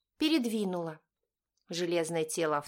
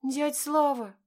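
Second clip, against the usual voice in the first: much higher, louder pleading; girl's voice; 9 semitones higher, 4 dB louder, slower than usual. A narrator's reading. Girl pleading with uncle Slava, high and loud. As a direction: call to him like a child. Ksenka speaking again.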